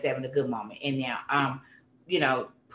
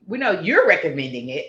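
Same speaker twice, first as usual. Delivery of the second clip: laughing; 5 dB louder than usual. Real, not acted. Teasing host about counseling.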